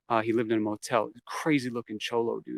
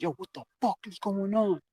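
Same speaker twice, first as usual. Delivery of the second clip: mock outburst; 8 semitones higher, 4 dB quieter than usual. Dealer bursts in, retold.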